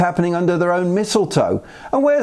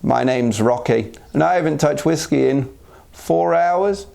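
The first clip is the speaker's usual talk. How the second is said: lightly acted low, subdued introduction; recovery meeting confession; 4 semitones lower than usual. Raccoon introducing himself at a recovery meeting, mock-subdued. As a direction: confess haltingly, pausing before the punchline. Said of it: "raccoon is now reportedly attending recovery meetings".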